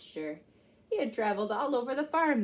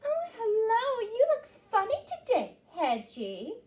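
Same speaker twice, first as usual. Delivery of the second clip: high, fast cat voice; a high, teasing cat; purring cat; 10 semitones higher than usual. Acted. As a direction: purr it sweetly like a cat. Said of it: "purred the cat".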